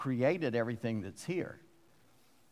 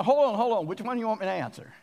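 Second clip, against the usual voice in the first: flustered hold on; 6 semitones higher, faster than usual. Retold or imitated. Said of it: "I'd go".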